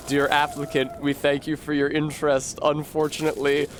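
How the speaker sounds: subdued, even letter-reading with a touch of gloom; mock sad. Applicant reading a college rejection letter, mock sad. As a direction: read the rejection letter glumly. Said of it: "opening envelopes with bad news, very sadly".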